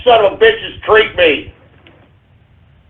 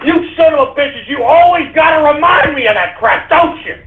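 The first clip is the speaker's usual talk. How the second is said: mock outrage; 6 semitones higher than usual. Yelling at pranking crew.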